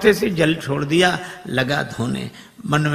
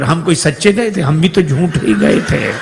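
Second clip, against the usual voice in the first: guest calling out; 6 dB louder than usual. Acted. Guest calls out from inside.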